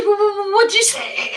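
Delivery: mock confused stammer. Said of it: "She said".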